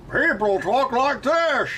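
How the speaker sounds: high, slow Australian-Scottish mash-up; mixed Australian-Scottish accent. Shown as a demonstration. Streamer tests two accents together, slow high Australian-Scottish blend. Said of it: "it's two accents mixed together".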